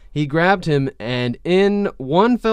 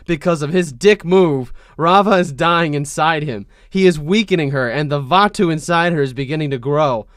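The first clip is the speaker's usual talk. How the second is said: angry; 3 semitones higher, 5 dB louder than usual. Acted. Kyoshi's angry explanation.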